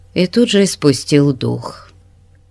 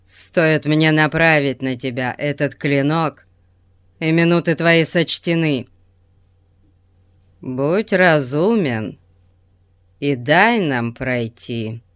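sinister voice; 3 semitones lower than usual. Acted. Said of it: "зловещим голосом сказал он".

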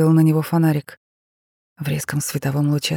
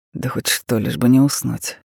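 snapping; 4 semitones lower than usual. A narrator's reading. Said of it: "огрызнулся Тарас".

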